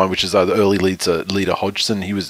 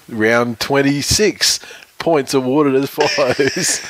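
mock announcer; 4 semitones higher, much slower than usual. Mock awards announcer reading results.

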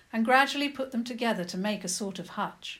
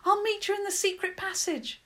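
said simply; 12 semitones higher, 4 dB louder than usual. A narrator's reading. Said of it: "she said simply".

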